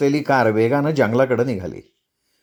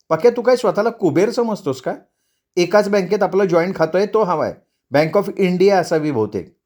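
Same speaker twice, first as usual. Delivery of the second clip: higher-pitched, needling wife; snippy wife; 4 semitones higher than usual. Acted. Wife demands joint account number from husband, snippy. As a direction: put the husband in his place.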